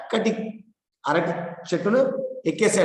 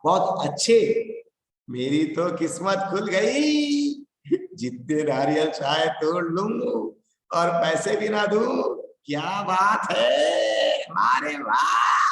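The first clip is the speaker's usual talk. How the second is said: gleeful; 2 semitones higher, slower than usual. Acted. Bhikhu delighted at free coconuts.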